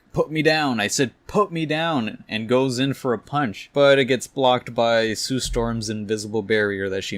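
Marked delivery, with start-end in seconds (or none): 0.1-2.2 yelling. Acted. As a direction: shout it, held in the air and furious. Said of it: "He's just yelling at him like".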